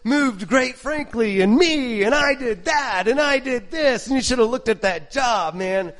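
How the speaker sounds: lightly voiced boasting man; boastful bragger. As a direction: show off like a braggart. Preacher mimics a boastful man.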